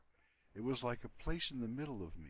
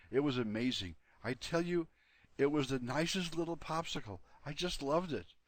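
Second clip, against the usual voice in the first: a hint of a gushing, excited dog, higher; a fond little dog gushing, a touch raised; lightly voiced dog; 5 semitones higher, 5 dB louder than usual. Dog Fafner gushing to Borgel about the popsicle, higher and excited.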